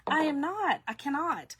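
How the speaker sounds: high, playful protest; emphatic refusal. Retold or imitated. Repeating her refusal of country music, high and adamant. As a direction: insist on it in mock indignation.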